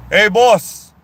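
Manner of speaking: loud, high mock French call across the pool; French guy's call. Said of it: "he goes".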